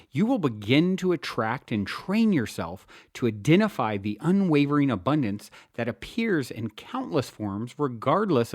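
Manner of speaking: measured, earnest book-reading voice; audiobook narration. Acted. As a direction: read it like an inspirational audiobook. Reads self-help book aloud.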